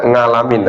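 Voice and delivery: "ngalamin" opening on a nasal ng; dialect pronunciation. Shown as a demonstration. Teacher citing Javanese readers' habit, dialect pronunciation. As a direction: say "ngalamin" with ng in place of the ain. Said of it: "itu dialek ya".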